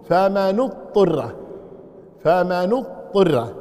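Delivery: "فمن اضطر" drawn out very slowly with a damma on the nun; slow, careful reading of "فمن اضطر" as in the third recitation. Shown as a demonstration. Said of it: "بكسر الطاء وضم النون".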